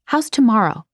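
prim, proper maid answering; formal phone voice. Acted. Phone call.

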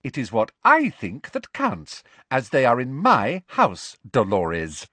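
strained courtesy dropping on the name; forced politeness. Acted. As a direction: assert authority through a forced smile. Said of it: "as though she had lockjaw".

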